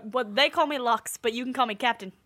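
lightly voiced Scottish captain; a touch of Scottish accent. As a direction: introduce yourself in mild Scottish. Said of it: "I guess she's Scottish now".

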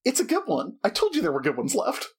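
high-pitched ghost, pleased; lightly voiced cheerful ghost; ghost character. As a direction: pipe up in a high spirit voice. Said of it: "lays it on the table and goes".

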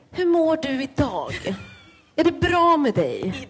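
boring carer voice. Retold or imitated. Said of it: "Man bara".

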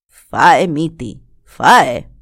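δυνατή, χαμηλή προτροπή γριάς να φάει; πρόσταξέ τον να φάει; γριά που προτρέπει. Acted. Η γριά προσφέρει φαγητό. (η γριά προτρέπει τον νεαρό να φάει, δυνατά και χαμηλά)

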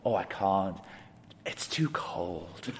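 imitating a soft, feeble refusal; meek, hushed excuse; Paul. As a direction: whimper it softly and slowly, frail and reluctant. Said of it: "a really soft voice".

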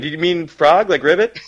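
put-on imagined parents quizzing the toddler, sing-song; mock adult asking. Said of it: "they'll be like".

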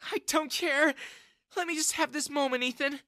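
a hint of tearful pleading, high; mother clinging to the young man, lightly tearful; mild sob. A narrator's reading. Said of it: "Jessica sobbed".

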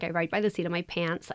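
put-on American accent. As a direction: slip into an American accent for fun. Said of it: "do that in that accent".

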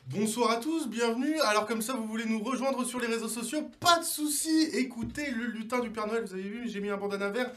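loud, bubbly showman announcer; showman host. Acted. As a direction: sell it like a stage host. Hosts a showman social media bit.

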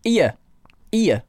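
"here" said as "'ere", no h; northern "'ere" for "here"; northern dropped h. Shown as a demonstration. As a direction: start "here" straight on the vowel. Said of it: "Northerners might miss it out".

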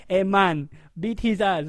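put-on loud dad in an Indian accent; imitated Indian-accented father. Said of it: "That was a good accent".

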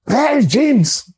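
high, slow mock German coach calling out; German accent, Bertie. Coach searching for a missing player, mock German accent. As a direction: call out in a hammed-up German accent. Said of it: "say what Bertie used to say back to him in his German accent".

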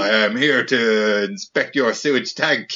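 slow, lightly French inspector; a hint of a French official, unhurried; French accent. Host plays a sewage tank inspector in a light French accent. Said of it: "Did you just do it like a / It's French".

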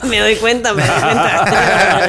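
real laughter through the words, dragging out the second "me doy cuenta"; amused laughing. Real, not acted. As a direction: say it while still laughing, stretched very slow. Laughing at friend's Colima remark.

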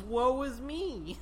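slow, theatrical woe; dramatic sigh. Pretend. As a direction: sigh it out like a tragic hero. Mocking Rincewind's self-pity.

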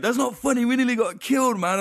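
mock angry outburst. Retelling the art guy's angry reply, hammed-up high outrage. Art guy upset, retold.

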